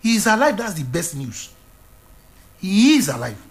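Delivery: rising preacher proclamation; preaching. Acted. Preacher proclaiming to his congregation, full voice.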